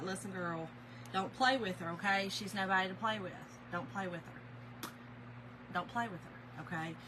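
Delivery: low-pitched, measured retold warning; understated, serious caution; forewarning. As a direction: warn a friend, slowing on the repeat. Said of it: "I was trying to forewarn her".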